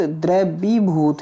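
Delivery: "द्रवीभूत" slowly, syllable by syllable; long-vowel "द्रवीभूत". Shown as a demonstration. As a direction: draw out the वी and भू of द्रवीभूत. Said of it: "बड़ी की मात्रा".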